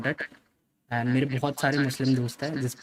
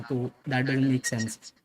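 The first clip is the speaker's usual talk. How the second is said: each word drawn out slowly; 1 slow emphatic; 2 semitones lower, much slower than usual. Real, not acted. Streamer to chat about the apology, slow and deliberate. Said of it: "emphatic verdict".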